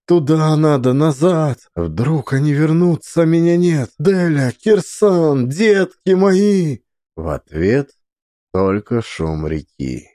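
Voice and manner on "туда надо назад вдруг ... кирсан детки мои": desperate mother. Acted. Mother desperately searching for children.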